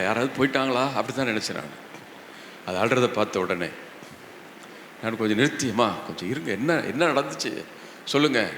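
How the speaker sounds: usual speaking voice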